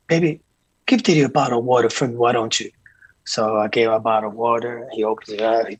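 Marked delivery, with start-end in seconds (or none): 0.1-2.7 P Diddy. Retold or imitated. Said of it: "he said".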